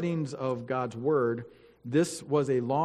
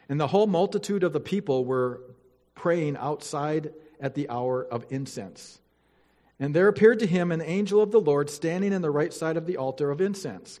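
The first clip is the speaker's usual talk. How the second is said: louder, formal Bible reading voice; scripture reading; 4 dB louder than usual. Acted. Pastor reading Luke to the church, formal and solemn. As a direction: read it out to the congregation with weight. Reads scripture aloud to congregation.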